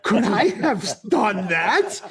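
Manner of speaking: slow, halting mock astonishment; hammed-up hesitant self-suspicion; guilty wonder. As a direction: draw it out in dawning disbelief. Realising his curse may have worked.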